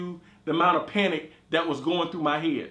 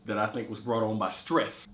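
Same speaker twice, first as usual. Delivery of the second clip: congested; 8 semitones lower, 5 dB quieter than usual. Real, not acted. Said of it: "as you can hear, um, I'm a little congested".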